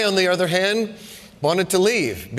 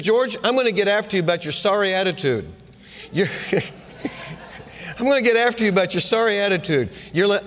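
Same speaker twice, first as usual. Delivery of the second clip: coach chewing him out; 3 semitones higher, faster than usual. Retold or imitated. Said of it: "halftime locker room talk".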